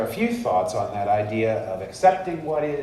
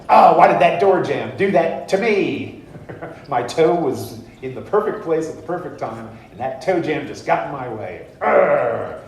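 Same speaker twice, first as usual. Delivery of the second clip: loud, higher hammed-up complaint; overdone self-pity, louder and higher; mock victim whine; 5 semitones higher, 7 dB louder than usual. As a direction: rant at the door jamb in mock outrage. Whines about door jamb.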